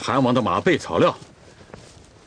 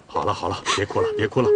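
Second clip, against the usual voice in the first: soothing; 5 semitones lower, 3 dB quieter, faster than usual. Acted. Comforting a crying woman.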